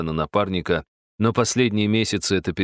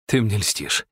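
довольно мурлыкнул; slower than usual. Acted. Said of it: "мурлыкнул Влад довольно".

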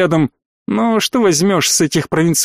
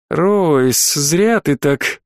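reproachful; much slower than usual. Acted. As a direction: chide him gently. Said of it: "осуждающе покачала головой".

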